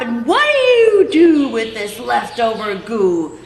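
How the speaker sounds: an indignant creature scolding the factory owner; riled-up Lorax. Acted. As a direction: lecture him with your dander up. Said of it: "his dander was up".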